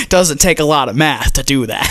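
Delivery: words shaken by laughter; laughing at himself. Real, not acted. Mocking his own bad math to co-host, laughing. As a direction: get it out through a laugh.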